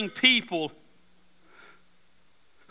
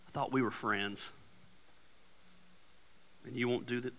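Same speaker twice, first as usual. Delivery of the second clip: guilt trip. Acted. Voicing guilt-tripping person.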